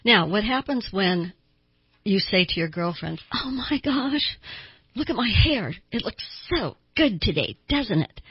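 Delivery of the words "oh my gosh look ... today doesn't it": sarcastic. Acted. Woman to her girlfriends about her hair, sarcastically fishing for validation. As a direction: flip it out there almost like you're joking. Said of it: "validation by using sarcasm".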